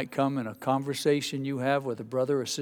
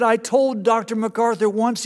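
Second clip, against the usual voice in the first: much higher and louder animated preacher voice; John Piper voice; 7 semitones higher, 5 dB louder than usual. Retold or imitated. Piper remembering his friendship with MacArthur, high and eager. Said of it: "he's got a high-pitched voice".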